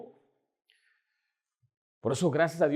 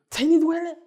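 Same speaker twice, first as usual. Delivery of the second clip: higher, louder repeat of ahí ni duele; emphatic repeat; 10 semitones higher, 5 dB louder than usual. Retold or imitated. Father insisting to crying child, louder and higher. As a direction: push the second ahí ni duele up and out.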